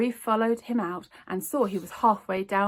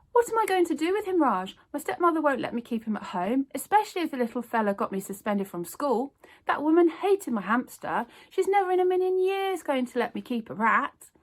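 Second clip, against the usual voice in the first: put-on worried girl; 6 semitones higher, 3 dB louder than usual. A narrator's reading. Zoe worried.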